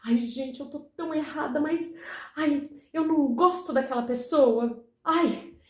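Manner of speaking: mild mock fretting; lightly acted self-blame; guilty lament. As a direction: play at feeling guilty, with little sighed groans. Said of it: "você se sente naquela culpa".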